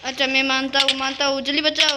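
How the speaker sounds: loud, quick yes, just save me; hurried desperate agreement. Real, not acted. Player agreeing to any deal to be saved, hurried loud plea. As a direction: give in fast and plead. Agreeing fast to get rescued.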